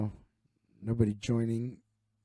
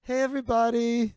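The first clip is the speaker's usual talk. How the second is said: mock bar crowd; 3 semitones higher, 3 dB louder than usual. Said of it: "That's what everybody's thinking".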